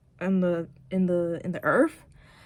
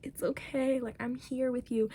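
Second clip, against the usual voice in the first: whispered comfort; 5 semitones higher than usual. Retold or imitated. She comforts her scared boyfriend in a whisper. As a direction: whisper comfort to someone upset.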